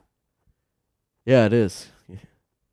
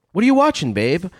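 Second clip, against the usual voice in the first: put-on teasing boyfriend voice; 5 semitones higher, faster than usual. Acting out a boyfriend at home.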